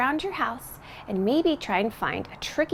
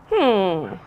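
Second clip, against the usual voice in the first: puzzled hum; 2 semitones lower, 5 dB louder than usual. Pretend. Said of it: "what does that mean?".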